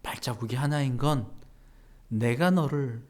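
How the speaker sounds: soft, tender reassurance; Jesus speaking gently. Retold or imitated. Jesus gently answering the complaining believer, tender. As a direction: speak softly like comforting a child. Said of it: "예수님께서 이렇게 얘기하셨다는 거죠".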